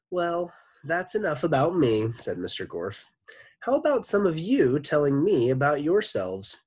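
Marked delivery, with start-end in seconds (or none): 0.1-2.1 Mister Gorf voice. Acted. Gorf speaks to class. 3.6-6.6 Mister Gorf voice. Acted. Gorf speaks to class.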